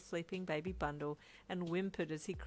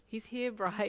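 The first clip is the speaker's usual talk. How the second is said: shy excitement; 4 semitones higher, 6 dB louder, slower than usual. Acted. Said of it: "you said with shy excitement".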